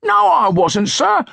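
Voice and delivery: put-on high panicked street boy protest; squawking urchin. A narrator's reading. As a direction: squeal it like a cornered bully boy. Bully urchin denying, pinned.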